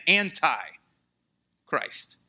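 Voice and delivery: "anti-Christ" slow, broken after "anti"; drawn-out "anti", separate "Christ"; emphatic split word. Shown as a demonstration. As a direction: stretch "anti", pause, then land "Christ". Preacher breaks up the key word.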